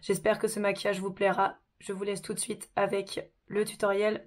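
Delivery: sick, hoarse voice from a sore throat. Real, not acted. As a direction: talk through a raspy, sick throat. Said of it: "j'ai une voix toute pourrie".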